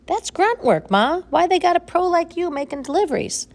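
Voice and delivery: can't believe a pro does this; incredulous. A narrator's reading. Ambrose surprised.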